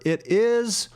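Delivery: "it is" with short ih and Z ending; North American pronunciation. Shown as a demonstration. Teacher showing North American speech, "it is" ending in Z. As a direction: say "it is" as "ih-t ihz". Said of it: "the S is pronounced as a Z".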